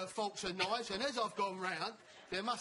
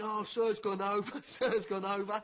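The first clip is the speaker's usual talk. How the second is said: put-on teasing kids; 5 dB louder than usual. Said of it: "I've got, like, kids".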